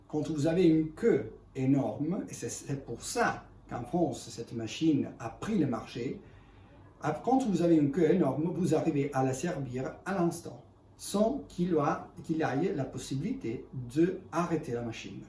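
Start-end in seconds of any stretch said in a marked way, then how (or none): 4.3-15.2 non-native French speaker; French with a foreign accent. Real, not acted. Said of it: "excusez-moi mon français".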